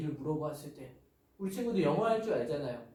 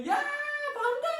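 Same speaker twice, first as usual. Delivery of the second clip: high, loud call from afar; hammed-up overjoyed pastor hailing the kids; delighted greeting; 3 dB louder than usual. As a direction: call out very high, thrilled to see them. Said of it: "너무 반가워서".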